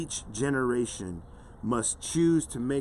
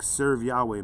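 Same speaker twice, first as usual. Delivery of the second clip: "Serve Yahweh" said firmly, with a falling close; emphatic exclamation. Shown as a demonstration. Preacher restating the command to serve, emphatic. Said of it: "Exclamation point".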